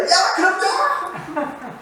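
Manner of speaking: comic high holler, dragged out; mock yell. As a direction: imitate someone yelling in complaint, stretching it out high. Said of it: "막 소리를 막 질러요".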